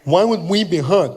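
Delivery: imitated thick-tongued retort; partially deaf fan. Deaf fan answers comedian's worry, mimicked voice. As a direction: blur the consonants, reasoning incredulously. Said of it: "he was partially deaf".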